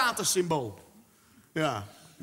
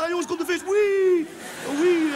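high, loud whoosh of joy; mock excited friends; 8 semitones higher, 6 dB louder than usual. Friends in the kitchen cheering the fish, high excited squeal.

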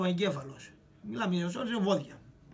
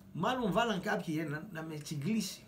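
ordinary talk

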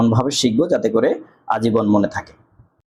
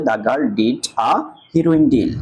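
slow demo reading; much slower than usual. Shown as a demonstration. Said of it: "আ বসাই".

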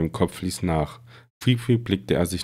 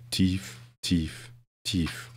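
fading away; 7 dB quieter, much slower than usual. A narrator's reading. Harry falls into darkness.

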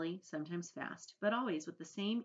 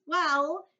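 high, loud, slow creature voice; Earthworm; 12 semitones higher, 12 dB louder than usual. A narrator's reading. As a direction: boast in a high, drawn-out voice. Earthworm begins boasting.

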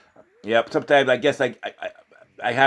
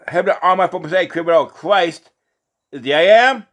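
preacher's solemn raised sign-off; closing proclamation; 4 semitones higher, 4 dB louder than usual. Real, not acted. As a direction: proclaim it firmly, stretching the final words.

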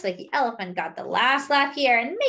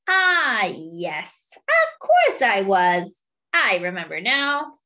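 lightly voiced dopey elephant, slower, louder start; forgetful elephant; 4 dB louder, slower than usual. Fred the elephant agreeing with Monkey, lightly voiced and muddled.

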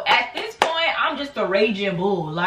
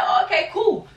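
sarcastic; 10 semitones higher than usual. Retold or imitated. Her sarcastic reply quoted.

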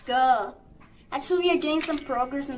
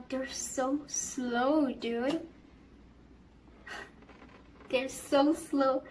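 exasperated; much slower than usual. Real, not acted. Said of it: "They're walking too slow".

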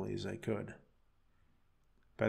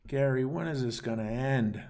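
moaning; 3 semitones higher, 3 dB louder than usual. Acted. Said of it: "I moaned".

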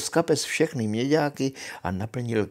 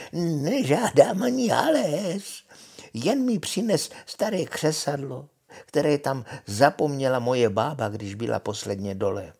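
witch bargaining; 3 semitones higher than usual. Acted. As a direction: wheedle as the witch, wavering high at first. Witch names her price. (vemlouvavá čarodějnice)

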